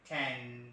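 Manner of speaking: "ten" with a light aspirated t; aspirated Western t. Shown as a demonstration. Trainer demos the Western t in "ten". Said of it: "like American or Britishers".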